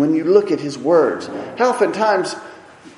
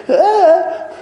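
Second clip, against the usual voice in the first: mock scared; 4 semitones higher, 4 dB louder than usual. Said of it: "take off running scared".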